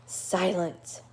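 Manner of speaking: level, firm shush in the reader's own voice; Stumpy shushing. Acted. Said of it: "yelled Stumpy, irritable".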